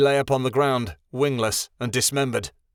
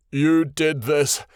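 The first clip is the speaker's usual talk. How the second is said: slow, louder, whimpering blame; a hurt pup accusing; whimpered; 2 semitones higher, 4 dB louder, slower than usual. A narrator's reading. Trapped Tattle whimpers blame at Midnight Star. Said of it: "Tattle whimpered".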